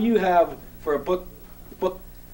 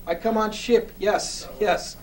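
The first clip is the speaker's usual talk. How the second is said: cheerful mock foreign accent, a bit higher; Andy's foreign accent; 5 semitones higher, slower than usual. Andy answering Bob cheerfully, mock foreign accent. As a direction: misunderstand eagerly in a light put-on foreign accent. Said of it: "in that accent of his".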